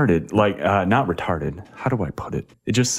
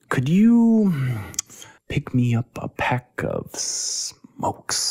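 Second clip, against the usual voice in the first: high start, then slow unvoiced monotone; monotone imitation; 6 semitones higher, much slower than usual. Imitating a Bosnian mom's flat request in monotone. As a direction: drone it with no emphasis. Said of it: "there's no pauses, like, emphasizing, uh, anything".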